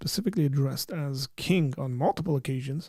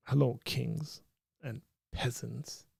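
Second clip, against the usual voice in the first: put-on slow, softened British accent; 6 dB quieter, slower than usual. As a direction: lightly mimic a British greeting, slowly and quietly. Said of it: "British accent, right? I don't wanna mimic it".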